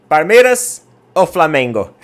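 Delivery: slow, loud imitation of a Chilean barista asking in Spanish accent. Chilean barista quizzing a Brazilian tourist, in Spanish accent. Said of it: "obviamente que ele falou em espanhol".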